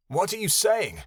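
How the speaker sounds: sudden fear in the question; scared, rising plea; frightened. Acted.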